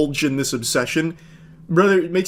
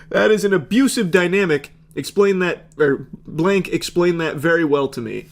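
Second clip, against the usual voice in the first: a hint of a huffy, self-righteous man; mock indignant boyfriend; 4 semitones higher than usual. Mocking the boyfriend lecturing his fiancée, mildly huffy. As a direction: read it as a lightly voiced pompous boyfriend. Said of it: "Then he goes on to say".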